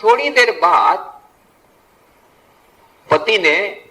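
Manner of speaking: ordinary talk, nothing marked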